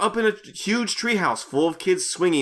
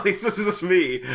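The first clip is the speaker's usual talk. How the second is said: usual speaking voice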